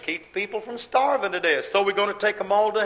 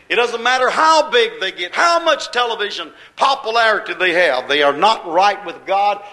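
forceful preaching; 5 dB louder than usual. Real, not acted. Preacher building to a loud point.

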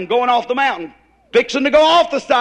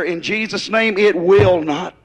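firm, louder "it will not"; commanding faith; 3 semitones lower, 3 dB louder than usual. Retold or imitated. Preacher shows the believer commanding trouble, firm and louder. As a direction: lay it down as a command, not a hope. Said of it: "You gotta take the idea".

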